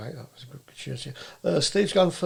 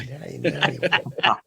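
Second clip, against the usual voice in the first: put-on Texan accent; 3 semitones lower than usual. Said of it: "Texan accent there".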